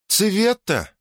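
high-pitched questioning cry; questioning call. A narrator's reading. Lilia calls after an owl, questioning cry. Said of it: "вопросительно крикнула она вслед сове".

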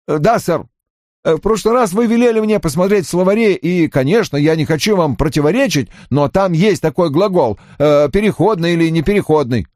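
high, quick defensive reply; subordinate politely contradicting. Acted. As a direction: argue back carefully in a high voice. Voices Johnny contradicting his boss. (высоким голосом, почтительно возражая)

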